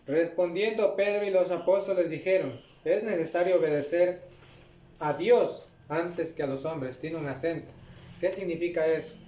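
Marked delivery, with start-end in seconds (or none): 0.1-7.0 measured, solemn Bible reading; scripture reading. Acted. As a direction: read the verse to the congregation with gravity. Reads scripture aloud.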